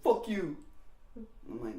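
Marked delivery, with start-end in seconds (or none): 0.0-0.6 high-pitched mock indignation; indignant retort. Beaten boy answering the girl, high indignant retort. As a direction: throw it back high, imitating an upset kid.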